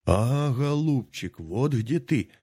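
roaring bear. Acted. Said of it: "заревел медведь".

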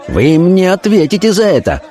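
high-pitched threatening retort; angry cry. A narrator's reading. Officer threatening the notary, angry cry. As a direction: cry it as a heated warning. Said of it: "крикнул ему офицер".

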